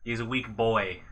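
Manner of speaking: a hint of a British accent; jokingly putting down a friend in a British accent; mock British accent. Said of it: "We should probably stop the accents there".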